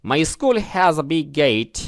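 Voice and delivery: "my school has a big gate" spelled out slowly, word by word; teacher's slow model reading; careful pronunciation. Shown as a demonstration. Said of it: "উচ্চারণ খেয়াল করুন".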